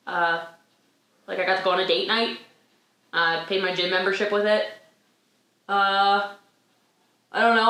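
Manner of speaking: lightly acted hesitant recollection, slightly low; past self. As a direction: list it haltingly, with ums and pauses. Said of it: "nine years ago".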